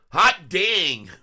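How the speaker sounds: high, loud burst of delight; excited whoop. Real, not acted. Trader watching the stock jump, excited high loud whoop. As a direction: cheer the price jump out loud. Price jumps on live chart.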